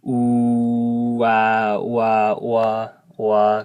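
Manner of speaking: loud, repeated ooh-wah with rounded lips; playful, exaggerated wah demo; UA diphthong drill. Shown as a demonstration. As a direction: say ooh-wah over and over, like a funny face. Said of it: "kinda like that".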